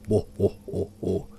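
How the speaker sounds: a hint of a deep uncanny laugh; deep male-like laugh. A narrator's reading. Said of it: "in a deep male-like voice".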